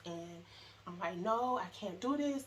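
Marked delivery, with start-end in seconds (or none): 1.2-2.4 high, loud panicked cry; retold scream of panic. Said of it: "I'm just screaming".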